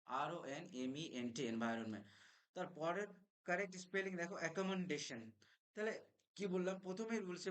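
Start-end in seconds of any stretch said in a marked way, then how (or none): 0.0-1.5 slow letter by letter spelling; spelling out slowly. Shown as a demonstration. Teacher spelling environment slowly for the class. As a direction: read each letter clearly. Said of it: "এন এর উচ্চারণ এখানেও থাকবে".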